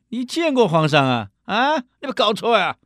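high disbelieving questions; can't believe his ears; incredulous commander. Retold or imitated. Commander doubts the soldier.

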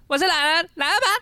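high, cracking impression voice. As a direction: let the voice crack and break high. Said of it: "我刚才有破音。".

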